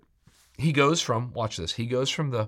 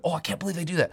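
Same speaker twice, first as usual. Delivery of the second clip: higher-pitched mock shock; imitating appalled onlookers; scandalized listener; 8 semitones higher, much faster than usual. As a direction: play a churchgoer aghast at others. Voices scandalized listeners reacting to Paul.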